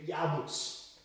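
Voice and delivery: Jabus with the middle syllable dropped, y start; shortened Jabus. Shown as a demonstration. Showing Jacobus losing its middle, Jabus as Ya-bus. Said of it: "an apostrophe in the middle".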